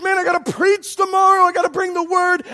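high, loud, wound-up self-quote; stressed. Retold or imitated. Preacher dad dreading tomorrow's sermon, stressed and loud. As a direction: vent the pressure loudly. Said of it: "And I get stressed".

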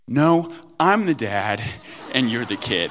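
lightly voiced kid talking back to dad; defiant little daughter. Three-year-old talking back to her dad, defiant. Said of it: "and she says".

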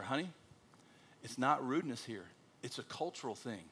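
gently calm an upset spouse; retold soothing. Pastor retelling how he explained culture to his wife, calming.

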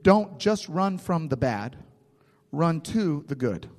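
slow, spaced-out emphasis on "run to the good"; emphatic teaching. Real, not acted. Preacher stating what scripture teaches, emphatic. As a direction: lean on "to" in "run to the good", slowly.

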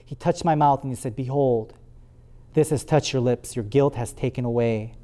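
measured, reverent Bible reading; scripture reading. Acted. Preacher reading scripture to the church, solemn. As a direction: read the passage to the congregation. Reads Isaiah 6 aloud.

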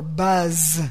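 "buzz" with a long humming z; onomatopoeic buzz. Shown as a demonstration. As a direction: draw out the zz in "buzz", pitched low. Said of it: "The sound of the word is how you pronounce it".

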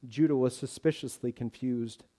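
normal talking voice

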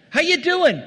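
high, loud chirpy hello; bright mock greeting. Pastor mimicking a cheery greeting, sing-song.

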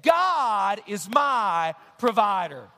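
congregation declaration. Shown as a demonstration. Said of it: "Let's all say that together".

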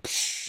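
soft "psh" burst sound; quick imitated whoosh of walls opening. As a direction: mouth a low whooshing explosion.

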